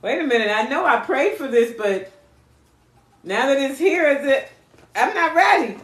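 hammed-up scared voice backing off; mock panic. Ghoster voiced by the reader, mock panicking. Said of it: "They were like".

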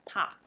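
踏 with a strong puff of air on the t; 踏 said with an aspirated initial t. Shown as a demonstration. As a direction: breathe out hard on the t of 踏. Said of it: "第一个这个特通常一定会有吐气".

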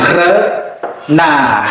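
renard slowly, with a gap after the first syllable. Shown as a demonstration. Teacher models renard for learners, syllable by syllable. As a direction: split renard into two drawn-out parts.

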